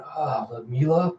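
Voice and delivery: soft, groggy murmur; barely coming round. Retold or imitated. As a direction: trail out softly, half-awake. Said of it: "Andy groggily kind of going".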